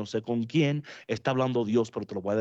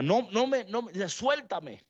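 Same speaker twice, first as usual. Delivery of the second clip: much higher, slowing pleading "suéltame"; Jesus pleading; 8 semitones higher than usual. Acted. Jesus to Mary Magdalene clinging to him, high pleading. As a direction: play Jesus begging her to let go.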